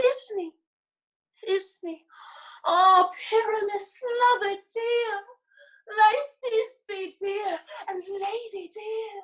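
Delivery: tiny, very high, squeaky voice. Asking to play Thisbe too, a player shows his monstrous little voice. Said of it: "I'll speak in a monstrous little voice".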